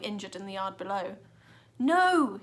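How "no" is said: high, loud cry of no; boy yelling as the killer escapes; frustrated yell. A narrator's reading. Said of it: "he yelled".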